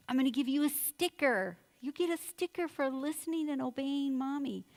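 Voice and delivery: put-on lilting, encouraging promise to a child; upbeat coaxing. Mom offering a sticker for obeying, upbeat coaxing. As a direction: make the sticker sound like a prize.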